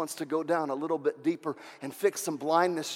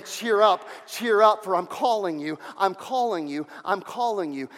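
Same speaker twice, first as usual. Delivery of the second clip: Jesus calling; 3 dB louder than usual. Acted. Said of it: "He's saying".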